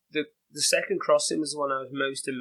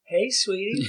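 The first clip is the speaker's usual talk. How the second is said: southern drawl; 6 semitones higher, slower than usual. Retold or imitated. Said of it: "like, southern drawl".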